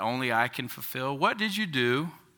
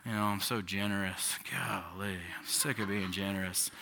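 heavy grudging sigh; 4 semitones lower, 9 dB quieter than usual. Pretend. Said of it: "walk around with this heavy".

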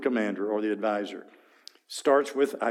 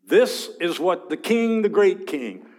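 a proud herald proclaiming, higher and louder; arrogant herald; 6 semitones higher, 5 dB louder than usual. Acted. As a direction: announce the great king with swagger. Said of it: "usually that's what they, the Assyrians would do".

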